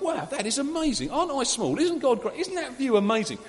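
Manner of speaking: awed wonder. Retold or imitated. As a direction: marvel at it like seeing it fresh. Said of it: "You start to think".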